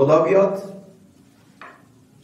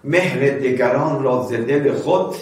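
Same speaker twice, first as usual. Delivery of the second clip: slow poem recital; slower than usual. Acted. Preacher reciting verse to congregation, slow recital. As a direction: chant the couplet slowly.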